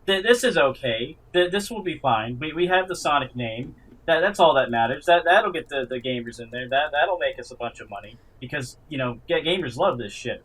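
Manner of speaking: mock the clueless studio bosses; mock studio exec. S2 mocking movie studios chasing the Sonic name, smug and loud. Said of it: "was like".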